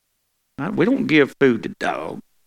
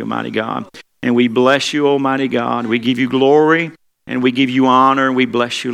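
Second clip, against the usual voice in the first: prayer voice, rising and falling; preacher leading the church in prayer; fervent prayer. Acted. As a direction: pour out praise to God. Leads congregational prayer.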